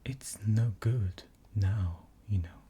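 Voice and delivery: lightly voiced sorrowful fawn; a touch of a sad faun, slow; soulful. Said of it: "very soulfully".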